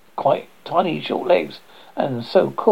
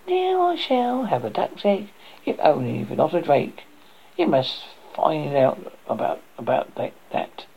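put-on old woman voice.

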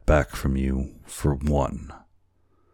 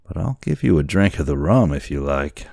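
lightly voiced tipsy boatswain; a hint of boozy swagger; drunken sailor; 3 dB louder, faster than usual. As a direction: offer it with a drunken swing in pitch. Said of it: "how drunken it appeared".

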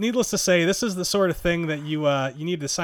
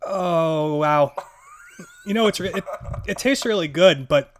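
burning surprise; 4 dB louder than usual. Real, not acted. First taste of insane hot sauce.

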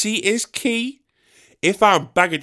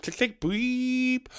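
imitated phone clicks and beep; 7 semitones higher, 9 dB quieter, slower than usual.

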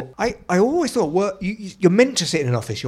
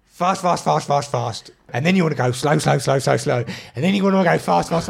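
imitating mate. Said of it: "so he goes".

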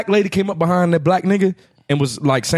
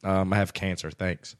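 flat quiet reply; 7 semitones lower, 9 dB quieter, slower than usual. Retold or imitated.

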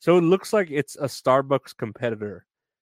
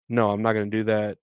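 flat robotic refusal. Retold or imitated. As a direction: stiff chatbot refusing, robot voice. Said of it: "I sound like a robot saying it".

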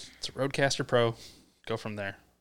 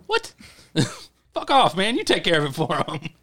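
mock angry retort; 5 semitones higher, 5 dB louder than usual. Retorting to manager in story.

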